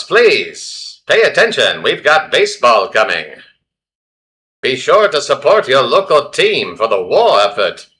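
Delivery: lightly hammed-up 1940s announcer calling out to the crowd; a hint of a wartime radio presenter selling the game; old newsreel announcer. Old-time newsreel announcer bit.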